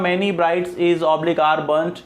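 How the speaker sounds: very slow sentence dictation; teacher dictating an example. Shown as a demonstration. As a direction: read Many brides is oblique are burnt slowly, word by word. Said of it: "हमने जैसे पहले sentence कहा".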